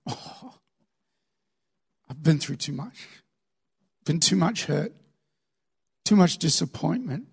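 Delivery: soft sigh, then subdued excuses; weary refusal. Acted. Older believer answering God's call, weary. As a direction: sigh it out, worn down by hurt. Acting a worn-out person refusing God.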